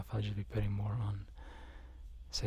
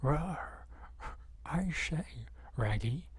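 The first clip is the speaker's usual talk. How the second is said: Scooby-Doo; 3 semitones higher, much slower than usual. Acted. Streamer answering as the dog to its pal, cartoon dog voice. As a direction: talk like a cartoon dog, R on the front of words. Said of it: "And Scooby-Doo goes".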